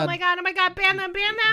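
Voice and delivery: loud, high mock outrage; panicky tantruming ruler. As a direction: cry out like a thin-skinned leader. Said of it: "the temperament of Donald Trump".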